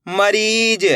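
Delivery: मरीज with री held long. Shown as a demonstration. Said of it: "बड़ी ई की मात्रा को खींच के पढ़ा जाता है".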